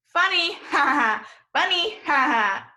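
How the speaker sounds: real laugh breaking into the word; giggling through the drill word. Real, not acted. Teacher to class on video, laughing at funny.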